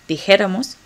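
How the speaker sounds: Dijéramos with weight on the accented JÉ; accented syllable. Shown as a demonstration. Teacher models the verb form for learners, stressing JÉ in Dijéramos. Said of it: "con acento".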